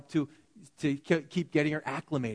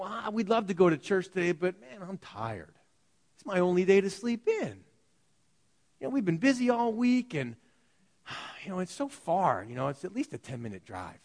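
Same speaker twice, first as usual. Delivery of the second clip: lightly voiced tired churchgoer, sighing; mock excuses; 2 semitones higher than usual. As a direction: whine a lame excuse with a sigh. Mimicking churchgoers' lazy excuses.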